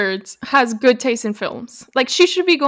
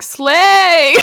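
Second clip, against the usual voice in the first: excited cheer; 5 semitones higher, 6 dB louder than usual. Retold or imitated. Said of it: "I would have been like".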